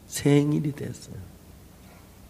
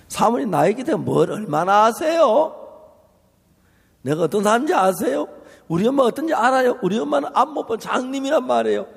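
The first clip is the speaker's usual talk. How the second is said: 고함치듯 따지는 딸, 높고 빠르게; 억울함을 터뜨리며 몰아붙이듯; retold outburst; 6 semitones higher than usual. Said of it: "사모님 고함을 해서". (눈먼 엄마 얘기를 사모님께 쏘아붙이는 딸, 흥분해서)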